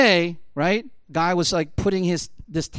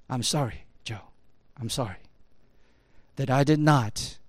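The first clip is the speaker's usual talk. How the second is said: solemn apology; 5 semitones lower, 4 dB quieter than usual. Retold or imitated. Boss bows and apologizes to worker.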